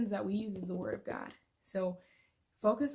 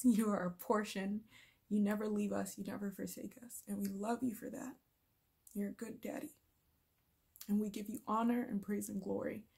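heartfelt prayer. Acted. Vlogger praying for her viewers, hushed and tender. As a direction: pray them out gently, with hushed devotion. Prays to close the video.

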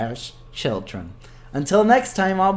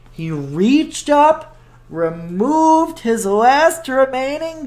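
lively storybook narration; reading to children. A narrator's reading. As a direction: read it like a children's book. Librarian reads picture book.

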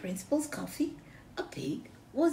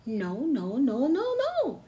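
rising no's; 3 semitones higher, slower than usual. Acted. Megan's repeated no rising.

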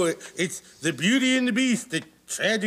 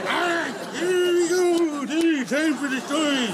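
put-on rally the kids for story time; big children's show host welcome; cheery host voice; 9 semitones higher than usual.

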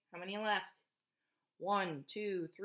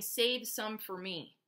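farmer's plea; slower than usual. Retold or imitated. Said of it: "the farmer keep saying".

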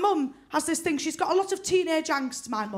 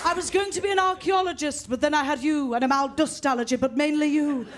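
resentful parent; 3 dB louder than usual. Pretend. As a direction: play the bitter parent blaming the child.

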